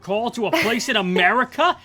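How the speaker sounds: loud, high Aussie outrage; hammed-up Australian dad aghast; mock Australian accent. Fan acting Australian father shocked by the bill, outraged Aussie accent. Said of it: "cut to Australia".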